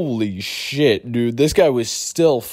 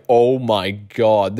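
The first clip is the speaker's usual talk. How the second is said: slow stunned awe; much slower than usual. Retold or imitated. Everyone sees the huge dent.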